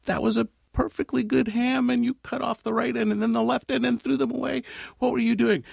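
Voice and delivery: high, outraged husband's protest; playing the husband aghast at the wasted ham; indignant young husband. Husband objecting to his wife, high and outraged.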